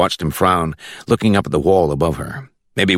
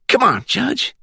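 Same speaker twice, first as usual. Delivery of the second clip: high-pitched Glades country drawl; country accent from the Glades; slower than usual. A narrator's reading. Caller on speakerphone checking for the judge, high country accent. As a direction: ask it in a high rural Florida accent. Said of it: "With that country accent".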